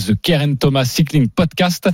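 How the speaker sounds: English accent. Real, not acted. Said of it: "c'est mon anglais qui te fait marrer".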